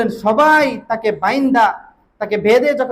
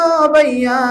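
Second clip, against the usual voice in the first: chanted call, raised in pitch; 4 semitones higher, 3 dB louder, slower than usual. Retold or imitated. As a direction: call out to a brother in a high sermon chant. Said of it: "ডাক দিয়ে বললেন".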